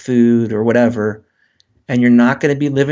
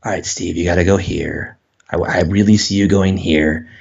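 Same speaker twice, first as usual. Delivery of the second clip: God speaking; 6 semitones lower than usual. Retold or imitated. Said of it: "what if God is like".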